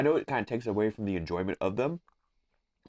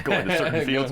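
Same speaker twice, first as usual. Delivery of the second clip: laughing; 6 semitones higher, 5 dB louder than usual. Real, not acted. Teasing echo of a friend's phrase.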